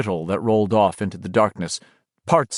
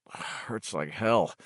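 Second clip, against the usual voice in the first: much softer, slow pained voice; pained murmur; 3 semitones lower, 11 dB quieter, much slower than usual. A narrator's reading. Richie answering about his head, pained murmur. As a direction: groan it out quietly.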